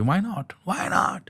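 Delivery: put-on high-pitched Indian-accented catchphrase. Siblings egging each other on when stuck, Indian accent. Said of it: "we'd always just say that to me".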